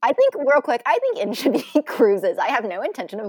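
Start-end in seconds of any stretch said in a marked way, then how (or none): 0.4-2.4 excited. Real, not acted. Excited late addition, laughing.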